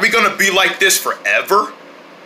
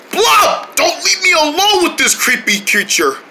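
desperate call; 8 semitones higher than usual. Acted. Begging friend not to leave.

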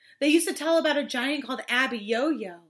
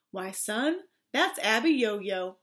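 lightly voiced low father; a hint of a slower, lower dad; 4 semitones lower, slower than usual. Father answering his son, slightly lowered voice.

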